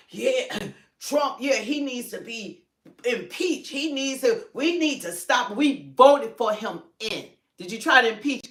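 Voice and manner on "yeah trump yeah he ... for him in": mock riled-up voter. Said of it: "they got you all riled up talking about".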